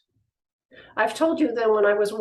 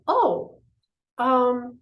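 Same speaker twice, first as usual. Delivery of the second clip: high, light shooing voice; gently dismissive; 4 semitones higher, 5 dB louder than usual. Retold or imitated. Someone telling a fear to go to the corner, lightly dismissive. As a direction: breezily send the fear away. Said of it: "and you go".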